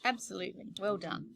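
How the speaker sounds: talking around a lollipop; words round a lollipop in the mouth; sucking a lollipop. Real, not acted. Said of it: "that was me having a lollipop".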